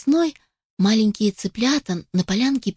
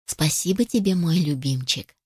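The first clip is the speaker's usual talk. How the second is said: tender mother hen; 4 semitones lower than usual. Acted. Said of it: "ласково его погладила".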